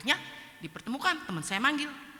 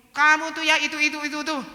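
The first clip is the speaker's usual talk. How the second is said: higher, louder accusing quote; mock scolding; 6 semitones higher, 8 dB louder than usual. Friend pointing out the speaker to others, mock scolding. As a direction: imitate someone pointedly telling another off.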